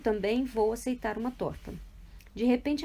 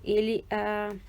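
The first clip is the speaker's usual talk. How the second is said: usual speaking voice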